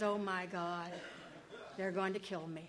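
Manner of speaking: mock terror through laughter; half-laughing alarm; laughing mock panic. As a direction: play the fear for laughs. Pumpkin sees the knife.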